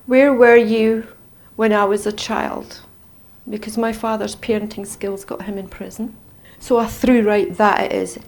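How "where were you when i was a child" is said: slow, loud accusing cry at her father; reliving a furious scream; retold scream. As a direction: hurl the question at him. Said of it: "and I was screaming".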